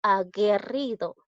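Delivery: "aguerrido" drawn out, U left silent. Shown as a demonstration. Teacher showing students the U is not pronounced, "aguerrido" with silent U. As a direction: say "aguerrido" slowly with a plain hard g and no u sound. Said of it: "yo no pronuncio la U".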